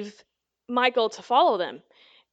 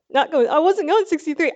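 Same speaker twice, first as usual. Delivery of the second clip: mild retold protest; 4 semitones higher, 4 dB louder than usual. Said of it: "copping my little attitude".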